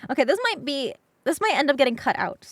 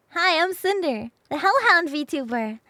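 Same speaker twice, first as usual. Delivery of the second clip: upbeat intro; 3 semitones higher, 5 dB louder than usual. Acted. Signature intro.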